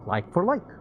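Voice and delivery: put-on high, loud wistful young man; Peter's voice. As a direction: voice Peter, a little sad.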